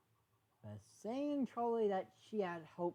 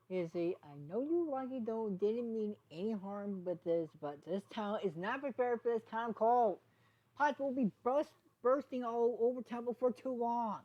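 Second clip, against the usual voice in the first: higher, louder worried townspony; raised character voice; 6 semitones higher, 4 dB louder than usual. Acted. Townspony warning Izzy about the cold, raised and worried. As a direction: warn her the pipes will burst.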